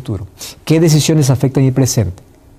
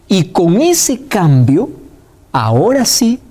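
model prayer; 3 semitones higher than usual. Shown as a demonstration. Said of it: "Yo debo decir".

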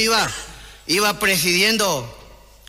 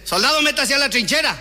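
higher, barked order into the trench; mock military command, higher; corporal's order; 6 semitones higher than usual.

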